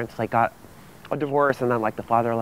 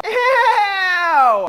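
disgusted; 13 semitones higher, 6 dB louder than usual. Acted. Disgusted at the bake sale mess.

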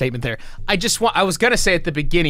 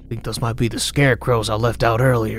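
put-on country accent; 6 semitones lower than usual. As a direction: ramble to yourself in a low country accent. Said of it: "I don't know why I'm doing that accent".

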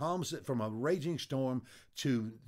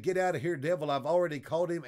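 higher, louder shout telling the devil to leave; defiant shout at the devil; 5 semitones higher, 5 dB louder, faster than usual. Retold or imitated. Old man in hospital bed shouting the devil away, defiant. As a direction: order the devil out, loud and high. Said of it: "He said".

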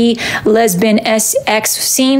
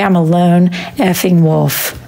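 slow, low, brooding lone-wolf declaration; a hammed-up tough-guy growl; lone wolf line; 5 semitones lower than usual. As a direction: drawl it like a moody lone wolf.

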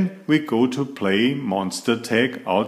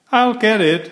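put-on high eager little-girl voice; Lola's voice; 11 semitones higher, 3 dB louder, faster than usual. Little sister calling out to the door, high and eager.

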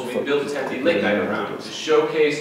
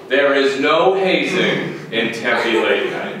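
slow, measured official denial; deliberate disclaimer; 2 semitones lower, slower than usual. Acted. Host gives one last note on hazing, slow and deliberate. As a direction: say it slowly, every word separate.

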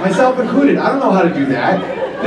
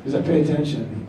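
soft; 7 semitones lower, 8 dB quieter than usual. Retold or imitated. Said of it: "she's like".

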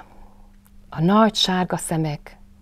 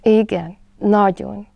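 rejoicing Piglet; 4 semitones higher, 6 dB louder, slower than usual. A narrator's reading. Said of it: "örvendezett Malacka".

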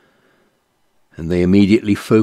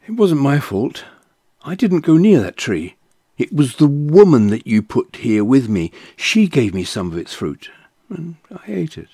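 higher and louder, quick to blame; defensive protest; 8 semitones higher, 5 dB louder than usual. Acted. Adam excusing himself to God, loud defensive protest. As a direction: push the fault away, rising in alarm.

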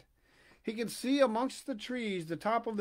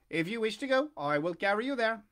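calling pigeon; 3 semitones higher, 3 dB louder than usual. Acted. Pigeon voiced.

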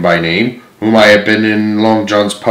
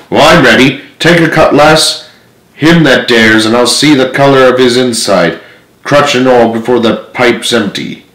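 pirate captain, a touch of menace; lightly voiced threatening pirate; menacing pirate captain; 2 semitones higher than usual. Silver threatens the crew.

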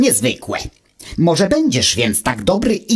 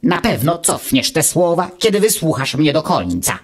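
calmly; 3 semitones higher than usual. Acted. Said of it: "odparł spokojnie Wuch".

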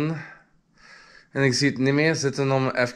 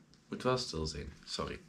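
much softer and lower, almost gone; very hushed; 7 semitones lower, 14 dB quieter than usual. Real, not acted. Reminding himself of the late hour, very hushed. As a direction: drop to a near-silent murmur.

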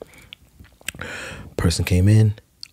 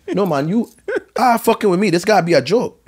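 rising higher and louder in indignant disbelief; outraged disbelief; 11 semitones higher, 4 dB louder than usual. Retold or imitated. Songwriter reliving being snubbed, outraged and incredulous. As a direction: build from stunned to an outraged near-shout.

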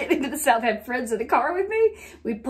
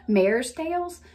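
Southern accent; slower than usual. Shown as a demonstration. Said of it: "how do you say that like a non-southerner".

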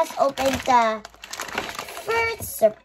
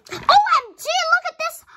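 high, loud OMG; eager to show viewers a new find; excited; 4 dB louder, faster than usual. Real, not acted. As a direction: call them over with delight. Showing toy to viewers.

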